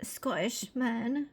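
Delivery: put-on slow, breathy stab at a Scottish accent, fading to a whisper; a failed try at a Scottish accent that comes out British; mock Scottish accent; attempted Scottish accent. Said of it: "That was totally not even Scottish".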